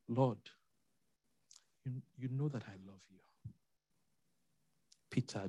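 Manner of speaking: soft, low, with long pauses; subdued, halting question and reply; hushed retold dialogue. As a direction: play the exchange gently and very quietly. Voices Jesus and Peter in dialogue.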